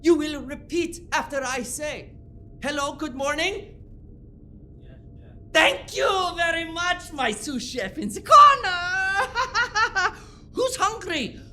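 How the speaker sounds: barking kitchen orders, loud; furious chef. Acted. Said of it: "I shall do impression right now for you".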